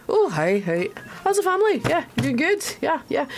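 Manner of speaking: high, chummy greeting; overfamiliar, breezy small talk; very friendly. Acted. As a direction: greet a stranger like an old pal. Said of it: "like, very friendly".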